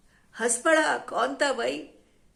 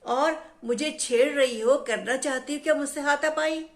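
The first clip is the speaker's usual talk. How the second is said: searching tree; 4 semitones higher than usual. Acted. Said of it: "खोजते हुए कहा".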